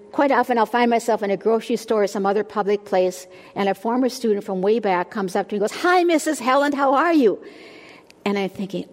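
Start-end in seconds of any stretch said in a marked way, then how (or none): 5.8-7.4 higher, louder mock-enthusiastic hello; excited greeting. Former student greets teacher in a store, excited and loud. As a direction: imitate an eager greeting, pitched up high.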